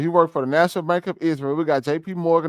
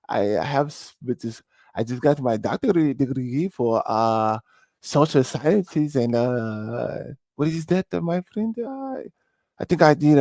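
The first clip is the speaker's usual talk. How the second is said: mock fawning job seeker; 2 semitones lower than usual. Host mock-begs Mister Cohen for a job, fawning. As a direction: play an obsequious applicant, pausing on "uh".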